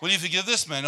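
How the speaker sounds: repeated question through a laugh. Retold or imitated. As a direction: ask it again, laughing. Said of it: "I got this voice say".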